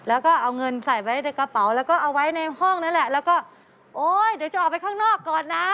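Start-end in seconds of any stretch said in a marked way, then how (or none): 3.7-5.7 calling out loudly. Retold or imitated. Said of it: "ตะโกนเสียงดังด้วย".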